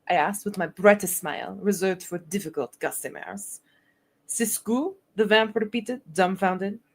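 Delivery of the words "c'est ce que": a hint of Russian accent on the question; slightly Russian-sounding French accent; faint Slavic-French accent, confused; Slavic-tinged French accent. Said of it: "I went Slavic".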